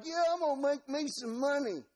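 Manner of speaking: high-pitched country bumpkin; Balaam as Bubba. Acted. Preacher mocks greedy Balaam on donkey, dopey yokel. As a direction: crow it like a dumb hick. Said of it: "all his friends called him Bubba".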